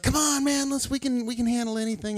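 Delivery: high, lightly voiced eager friend; a hint of a hyped-up bad friend; pushy buddy. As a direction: egg him on like a reckless pal.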